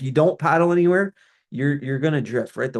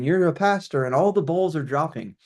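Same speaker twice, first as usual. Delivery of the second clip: mildly mocking, a bit higher; mocking email tone; 3 semitones higher than usual. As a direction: lightly parody a condescending email. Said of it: "let's call it the tone of those emails".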